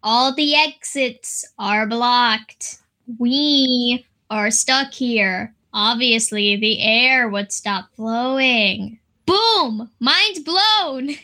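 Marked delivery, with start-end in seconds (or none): 0.0-9.0 slow quoted villain. Retold or imitated. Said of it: "He very clearly said".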